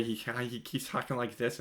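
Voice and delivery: lightly imitated comic character voice; a small, half-hearted put-on movie voice; Adam Sandler. Reviewer showing viewers an actor's annoying voice, light mimicry. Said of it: "that little Nicky Light voice".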